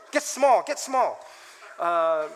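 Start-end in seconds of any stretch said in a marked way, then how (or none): 0.1-1.2 self-instruction. Retold or imitated. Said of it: "look more humble".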